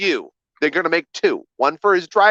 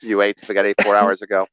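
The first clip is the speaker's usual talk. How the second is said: low, deliberate helper voice; guide's instructing voice; 8 semitones lower than usual. Acted. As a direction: announce it like a detached assistant. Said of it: "of course I'm talking like that".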